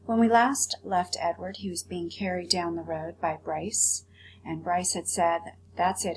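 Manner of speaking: put-on reading a chapter aloud to children; read-aloud storytelling voice; story narration. A narrator's reading. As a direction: tell the story gently, with character voices. Teacher reads chapter aloud.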